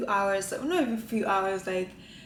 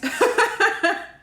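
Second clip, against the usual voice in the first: high-pitched burst of laughter; loud laugh; 11 semitones higher, 9 dB louder than usual. Real, not acted. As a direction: crack up loudly at yourself. Laughs at huge bite.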